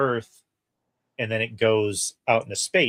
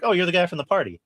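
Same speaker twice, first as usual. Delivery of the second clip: lightly voiced character, pitched higher; a higher-pitched imitation of a friend's recognition; Ned; 8 semitones higher, 3 dB louder, faster than usual. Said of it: "and Ned's like".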